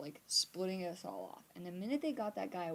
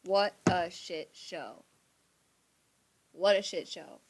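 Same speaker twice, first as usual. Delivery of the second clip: exasperated; 8 dB louder, slower than usual. Real, not acted. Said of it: "I'm so sorry".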